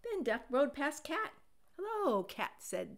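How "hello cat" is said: a higher friendly hello. A narrator's reading. Duck greeting Cat with a high hello. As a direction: greet her brightly.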